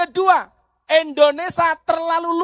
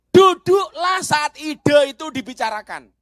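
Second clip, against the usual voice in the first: proclaimed loudly to the crowd; preached line; 3 semitones higher, 3 dB louder than usual. Shown as a demonstration. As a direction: call it out like a maxim. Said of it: "Saya ulangi". (seruan nasihat dengan suara lantang)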